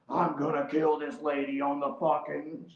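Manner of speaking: seething vow, drawn out; mock-murderous, slow and forceful; losing it. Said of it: "That's when I lost it".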